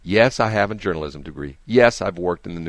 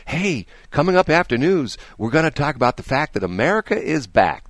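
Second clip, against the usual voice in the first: mock radio tease; 4 semitones higher than usual. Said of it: "The tease was".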